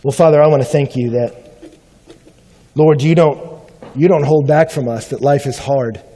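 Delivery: earnest spoken prayer. Real, not acted. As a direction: pray it sincerely to God. Closing prayer.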